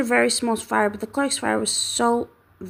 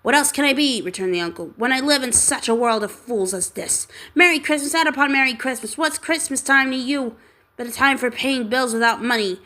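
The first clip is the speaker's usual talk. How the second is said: indignant. Acted. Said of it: "said Scrooge indignantly".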